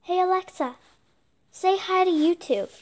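loud call to a smart speaker; calling out to Alexa. Real, not acted. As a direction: call it out so the device hears.

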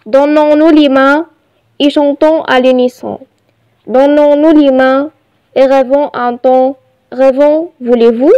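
measured, evenly phrased poem reading; poem recitation. Shown as a demonstration. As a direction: recite it line by line for learners. Reads poem aloud to learners. (إلقاء قصيدة بتأنٍّ)

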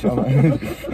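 laughing through the words. Real, not acted. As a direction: laugh while speaking. Laughing while telling story.

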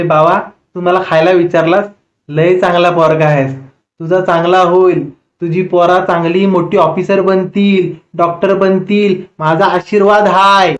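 slow, drawn-out granny blessing; lightly voiced old woman giving blessings. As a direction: bless him slowly like a village grandmother.

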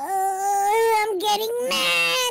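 slow mock anger. Elf angered by the food.

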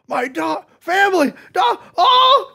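high gushing, building to a shout; mock elation. Imitating the hero remembering his family, rising mock elation. Hero overjoyed, running home, acted.

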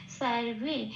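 "স্যার রে" as sar-ve, dental s then v glide; Sanskrit va sound. Shown as a demonstration. Teacher concludes the rule, "স্যার রে" pronounced sar-ve. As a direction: glide into the last syllable as o plus e, "ve". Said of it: "তাহলে উচ্চারণটা হবে".

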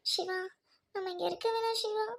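pleading through tears; tearful. Acted. Girl telling her lover she can't live apart, tearful. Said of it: "அழாத Jenny".

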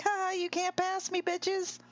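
high taunting driver voice; high-pitched mock race driver; cocky race car driver. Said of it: "that race car driver that's like".

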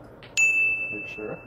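slow, high mock doubt; teasing doubt. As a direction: sow doubt playfully. Teasing about salt.

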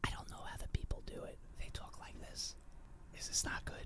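very soft whispered ASMR. Shown as a demonstration. Streamer does ASMR for the people on request, whisper. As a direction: whisper close and softly to the listeners. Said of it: "I will do some A S M R".

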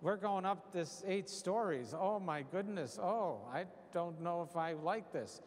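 mock-nervous wavering oohs and ohs. Nervous rider climbing the eight stories, hammed-up jitters. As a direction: play up mild second thoughts, drawn-out. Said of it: "you're starting to say".

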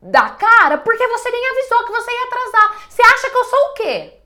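furious complaint to a partner who showed up late; aggressive outburst. Shown as a demonstration. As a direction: blast your partner for being late. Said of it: "É diferente de eu falar".

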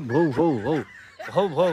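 lightly voiced "bhau bhau" barks; imitated dog barking. Telling how Charlie barks at everyone, imitated barking. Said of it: "करता है ये Charlie".

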